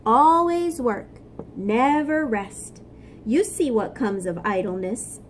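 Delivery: a light take on Floyd's voice scolding; tiny nagging voice. Acted. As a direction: nag like a small conscience. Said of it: "Bart heard a tiny voice".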